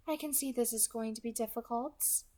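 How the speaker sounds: lightly amused, soft and friendly; enjoy her fear politely; amused villain. Acted. Kidnapper amused by the girl's struggle, soft and friendly. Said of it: "The voice was amused".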